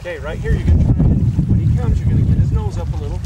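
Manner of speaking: loud urgent instructions. Real, not acted. Calling instructions during landing.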